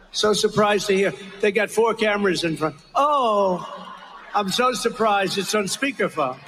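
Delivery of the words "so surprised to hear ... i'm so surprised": hammed-up fake surprise with a laugh; mock surprise. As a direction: act surprised, sarcastically. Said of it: "was that the phoniest phone call".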